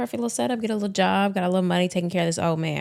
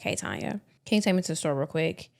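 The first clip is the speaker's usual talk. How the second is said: quoting Yvette; 5 dB quieter than usual. Retold or imitated. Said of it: "She's like".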